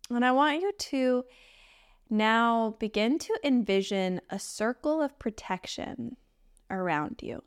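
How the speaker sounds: gentle meditation guide with long pauses; unhurried, even meditation voice; guided meditation. Acted. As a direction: guide them into stillness, leaving space between phrases.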